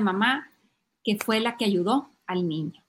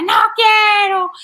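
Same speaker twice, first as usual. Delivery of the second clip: slow, loud, high mock tantrum; defiant child; 10 semitones higher, 11 dB louder, slower than usual. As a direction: stretch out a kid's stubborn yell. Niño repite su negativa. (berrinche fingido, alargado y agudo)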